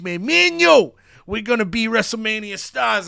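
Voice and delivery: eager wrestler cutting a promo for his buddy; excited Brooks Jensen. Acted. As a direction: pump up your new tag partner. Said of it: "he grabs a mic and he says".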